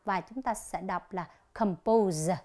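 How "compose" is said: "compose" with the s voiced as z; softened S sound. Shown as a demonstration. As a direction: draw out "compose", ending on a buzzing z. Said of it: "sẽ được đọc nhẹ lại". (đọc "compose" với âm s nhẹ thành z)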